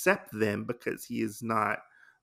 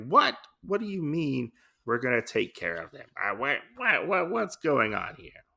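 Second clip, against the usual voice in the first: high opening yelp, then stammering; mock incredulity; 3 semitones higher than usual. Gin balking at caring for the kids, mock incredulous. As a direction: sputter in playful disbelief.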